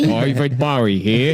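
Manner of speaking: slow mock British announcement; drawn-out bad rock-star impression. Shown as a demonstration. Singer addressing the recording institute, slow put-on British voice. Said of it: "wish I could do an impression of a singer".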